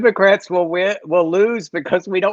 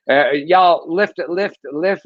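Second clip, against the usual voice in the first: slow, drawn-out call to lift; stretching out the word lift; drawn-out toast call; slower than usual. Real, not acted. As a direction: urge everyone to raise a glass. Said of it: "lift your glass to me".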